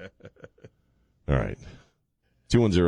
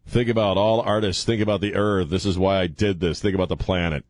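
bad French accent. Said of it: "the worst French accent I've ever done".

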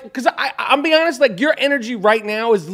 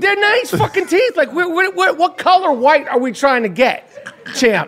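laughing, higher teasing voice; laughing tease; 5 semitones higher than usual. Real, not acted. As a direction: rib him while laughing. Teasing interviewer laughing at teeth.

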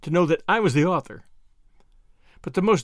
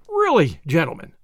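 remonstrance; 4 dB louder than usual. Acted. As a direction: chide the class with a sharp "Really?". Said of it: "of remonstrance".

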